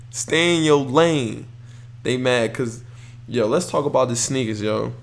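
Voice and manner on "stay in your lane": slow, lightly voiced unbothered dad; slow, cool LeVar imitation. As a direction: let it roll out slowly and calmly. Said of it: "He told Cass".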